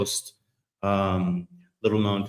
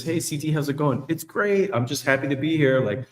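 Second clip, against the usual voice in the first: higher, chirpy put-on cheer; forced upbeat work voice; fake cheer; 3 semitones higher than usual. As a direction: sell the cheer while hiding misery. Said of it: "and inside you're fucking dying".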